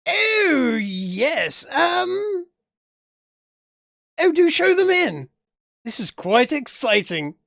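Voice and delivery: lady of the house. Acted. Lady welcoming guests to her home, high and gushing. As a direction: gush like a posh old hag. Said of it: "Okay, she sounds like a hag".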